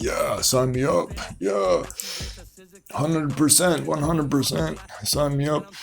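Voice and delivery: eager yes. Acted. Acting eager student accepting lesson.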